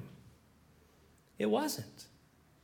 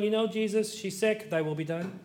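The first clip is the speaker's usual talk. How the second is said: offhand mock request, fading softer; casual, resigned prayer; 4 dB quieter than usual. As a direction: shrug it off to Jesus. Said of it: "He wouldn't say it that way".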